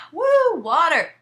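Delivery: high, slow cheerful toast; mock cheer. Real, not acted. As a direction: raise a glass of water. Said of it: "mock toast".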